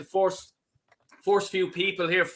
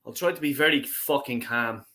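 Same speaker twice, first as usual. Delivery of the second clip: forced calm; 5 semitones lower than usual. Real, not acted. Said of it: "I'll start off calm".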